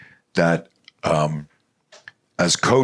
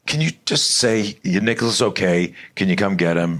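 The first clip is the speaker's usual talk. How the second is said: pitched-up pleading complaint; mock exasperation; 3 semitones higher than usual. Dad coaching the nurse to reassure first, mock exasperated. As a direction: beg them to get to the point.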